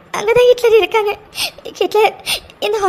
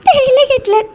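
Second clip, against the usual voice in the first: crying. Acted. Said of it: "please நீ அழாத".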